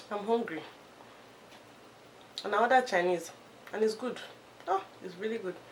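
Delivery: speaking between bites. Recording a hair-care video, talking to viewers while eating. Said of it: "as I'm recording this video, I'm eating".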